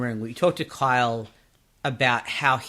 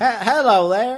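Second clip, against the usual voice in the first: very high, loud put-on cowboy accent; 10 semitones higher, 7 dB louder than usual. Getting into character with a cowboy hat, greeting in a cowboy accent. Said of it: "like a cowboy accent".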